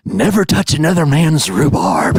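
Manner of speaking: lightly voiced villain line, a touch theatrical; Joker quote. Host quoting the Joker in a light villain voice. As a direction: deliver it like a cartoon villain's maxim. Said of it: "as the Joker used to say".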